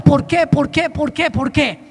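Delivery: mild retold anguish; pleading questions. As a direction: beg God for an answer, fading. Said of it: "empecé a preguntarle a Dios".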